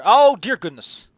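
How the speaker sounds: slow, loud, high gasp of disbelief; shocked exclamation. Real, not acted. Player stunned by what he found, loud slow surprise. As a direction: let it drag out in amazement. Reacting to game loot.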